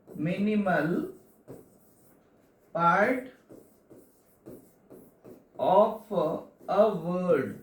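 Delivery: word by word, long pauses between; slow dictation. Real, not acted. Teacher dictating a definition to students, slow dictation. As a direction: dictate it slowly in small separate pieces.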